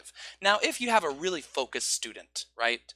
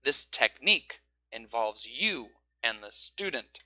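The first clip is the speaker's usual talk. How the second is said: slow, key words pushed; slow emphasis on marked words; marked important words; 4 semitones lower, slower than usual. Shown as a demonstration. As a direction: lean on each marked word. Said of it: "You can go".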